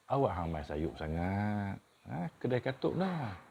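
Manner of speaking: Kedah dialect scolding latecomer; northern Malay mild chiding; kedah malay accent. Shown as a demonstration. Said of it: "kenapa kamu datang lambat".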